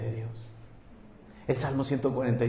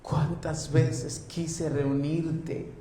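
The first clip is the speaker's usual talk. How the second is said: lamenting; 4 semitones higher, 3 dB quieter, much slower than usual. Acted. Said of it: "llorando dijo".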